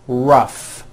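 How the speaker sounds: ROUGH ending on an airy, audible F; stretched F. Shown as a demonstration. Teacher modelling GH as F, stretched F in ROUGH. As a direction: draw out the final F in ROUGH. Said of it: "Notice the G H combination".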